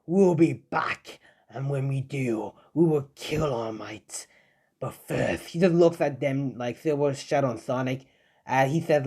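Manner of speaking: a hint of a sinister villain promising revenge; lightly voiced brooding villain threat; menacing threat.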